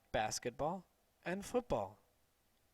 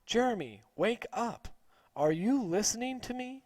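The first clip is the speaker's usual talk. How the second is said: raised, higher scolding voice; teacher yelling; 6 semitones higher, 4 dB louder than usual. A narrator's reading. Teacher scolding a daydreaming boy, raised voice. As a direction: snap him awake, scolding. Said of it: "Missus Lee would yell at him".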